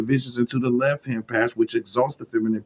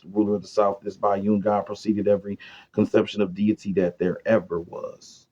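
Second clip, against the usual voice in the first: reading aloud. Acted. Reads occult text aloud.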